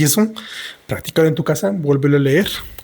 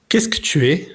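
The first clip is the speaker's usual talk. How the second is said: whispered question; 3 semitones higher than usual. Acted. Girl asks monster, storybook reading.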